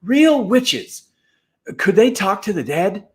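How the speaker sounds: put-on high, eager kid voice; excited boy. A narrator's reading. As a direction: lean in, wide-eyed. Henry Hank thrilled, boy voice.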